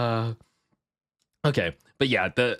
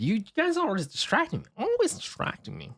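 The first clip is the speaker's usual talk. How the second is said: mock whiny complaint; 11 semitones higher than usual. Playful complaint in high voice.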